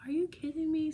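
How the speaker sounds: overwhelmed amazement; disbelief. Retold or imitated. Telling her friend, high, amazed disbelief. Retold reaction to friend's gift.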